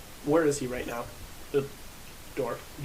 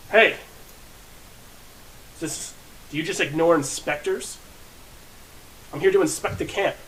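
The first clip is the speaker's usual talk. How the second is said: yelled in Goblin; 3 semitones higher than usual. Acted. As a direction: bark it out like a self-important camp inspector. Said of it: "yell in Goblin".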